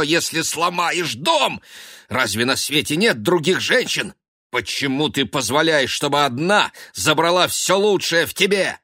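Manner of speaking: furious brotherly rebuke; scolding. A narrator's reading. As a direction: shake sense into him. Ben scolding his brother.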